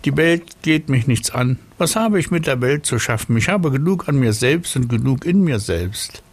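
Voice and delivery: high, self-important snail. Acted. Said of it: "sagte die Schnecke".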